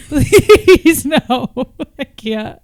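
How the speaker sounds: high, hammed-up pleading; mock despair. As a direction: wail in playful mock distress. Mock despair over Justin being gay.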